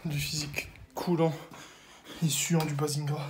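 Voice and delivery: unvoiced whispered aside. Real, not acted. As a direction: whisper it to the camera.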